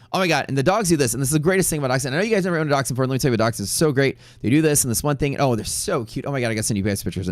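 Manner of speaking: mock gushing owner, breathless about her dachshunds; gushing dog lover. Imitating the dog owner raving about dachshunds, quick and excited. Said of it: "And she'd be like".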